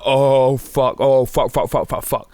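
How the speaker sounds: rising alarm fading to resignation; panicked swearing. Retold or imitated. To himself in the toilet queue, panicked swearing that fades.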